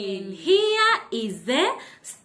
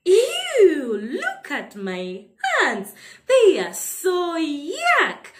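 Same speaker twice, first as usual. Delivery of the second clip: laughing mock disgust; 3 semitones higher than usual. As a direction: giggly pretend yuck.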